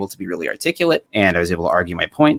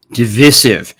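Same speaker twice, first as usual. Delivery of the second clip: mock British accent, louder; bad British accent; 6 dB louder, slower than usual. Echoing the guest's word in a mock British accent. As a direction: imitate his British-sounding pronunciation of "Divisive". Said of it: "He turned into my bad British accent".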